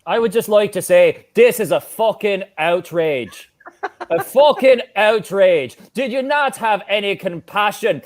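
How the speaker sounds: indignant rant in a put-on Irish accent. Frog on a call-in protesting his unpaid wages, Irish accent. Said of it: "could do an Irish accent".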